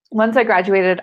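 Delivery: ordinary talk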